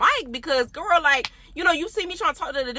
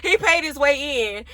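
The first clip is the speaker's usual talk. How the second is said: slower, laughing through it; laughing repeat; 2 semitones higher than usual. Real, not acted. Boasting to friends that he paid his way back, laughing. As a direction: savor the line with a laugh.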